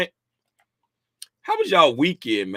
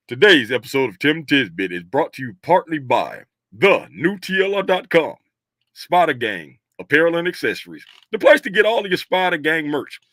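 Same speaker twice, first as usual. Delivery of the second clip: sponsorship voice. Acted. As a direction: sell it like a sponsor spot. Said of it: "Let's go to sponsorship voice".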